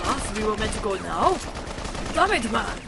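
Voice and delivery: hammed-up, badly faked German accent; joking attempt at a German accent. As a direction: put on a rough mock German accent. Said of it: "That's my bad German accent".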